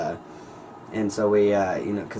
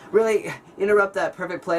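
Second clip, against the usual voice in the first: mock teacher scolding; 9 semitones higher than usual. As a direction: play the outraged teacher, pitched way up. Teacher scolding him mid-play.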